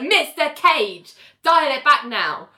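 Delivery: acted exasperated telling-off; mock reprimand. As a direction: draw out the name as a warning. Judge reprimands the lawyer.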